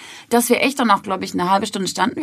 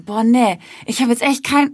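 genervt; 3 semitones higher, 3 dB louder than usual. Retold or imitated. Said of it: "so genervt".

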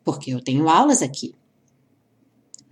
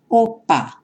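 "opa", "adeus", "nota" said slowly, each stop cut short; slow demo words; much slower than usual. Shown as a demonstration. Teacher slowing down Portuguese words to show stops, deliberate. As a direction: draw each word out so the stop consonant is heard breaking the sound. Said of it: "falar lentamente as palavras".

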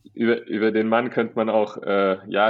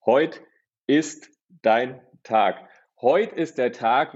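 hyped-up pep talk; much slower than usual. Retold or imitated. Hyping up his father.

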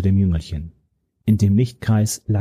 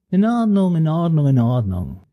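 starts high and placating, drops to plain; a high "in Ordnung" that sinks with each repeat; placating, falling back; 8 semitones higher than usual. Acted. The young villain, struck, settles down from high to plain.

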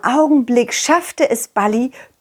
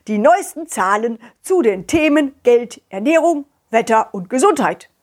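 radio news read. Acted. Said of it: "dann kamen die Nachrichten".

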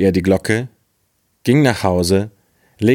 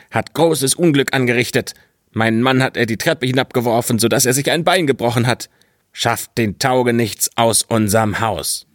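higher, hurried complaining woman; upset wife; 3 semitones higher than usual. Acted. Wife complains to the boy's father, higher hurried voice.

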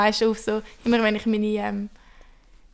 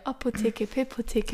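diction drill; 5 dB quieter, slower than usual. Shown as a demonstration. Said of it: "das haben wir im Theater immer gemacht".

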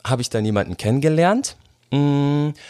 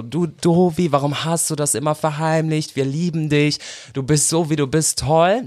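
higher-pitched, affectionate chiding; retold loving reassurance; 7 semitones higher than usual. Sister telling brother he is loved, high affectionate reassurance. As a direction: imitate a sister's doting fuss.

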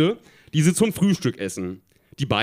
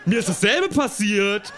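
high-pitched, excited storybook cry; mild shouting; 5 semitones higher than usual. A narrator's reading. Tina tells the boy her story, still crying out. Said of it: "immer noch laut schreiend".

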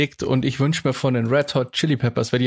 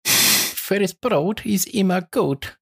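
slow and higher, drawn out; drawn-out hype voice; 6 semitones higher, much slower than usual. Shown as a demonstration. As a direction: stretch it like a hype chant. Repeats the phrase performed.

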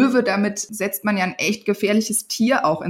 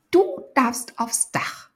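sweet motherly coaxing, higher; 6 semitones higher, 3 dB quieter, slower than usual. Acted. Mother telling Benno he may ride on the roof, coaxing. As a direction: coax your son gently. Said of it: "sagte sie".

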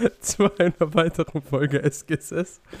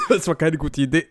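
choking; 3 semitones higher than usual. Real, not acted. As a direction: still choking mid-sentence. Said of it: "ich hab mich grad fett verschluckt".

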